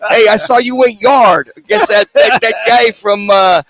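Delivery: put-on slap him on the back like an old neighborhood pal; tough-guy buddy. Co-host pretending to greet Dominic in the dugout, hammed-up pal voice.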